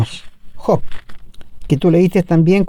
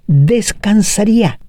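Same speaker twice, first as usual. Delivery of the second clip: slow emphasis; 3 semitones higher, slower than usual. Real, not acted. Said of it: "¿Te das cuenta?".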